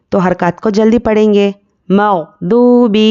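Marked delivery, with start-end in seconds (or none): 1.9-3.0 slow مغضوب with long oo, short last vowel; elongated waaw madd. Shown as a demonstration. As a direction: hold oo in مغضوب for one alif. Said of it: "ایک الف کے برابر کھینچ کر پڑھیں گے".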